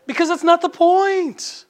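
high, loud preaching shout; worked up. Real, not acted. Preacher getting worked up at the congregation, loud. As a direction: burst out with conviction. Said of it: "I get a little worked up".

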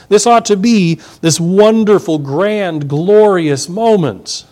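grand build-up. Real, not acted.

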